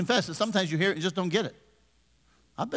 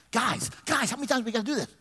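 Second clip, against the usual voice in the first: tag mock exasperation; 5 semitones higher, faster than usual. Mock scolding of unresponsive congregation.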